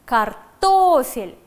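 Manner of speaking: slow, loud "Картофель" stressing ТО; stress on the syllable. Shown as a demonstration. Teacher dictating a word slowly and loudly. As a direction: draw out "Картофель" and lean on ТО. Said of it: "На второй слог падает ударение".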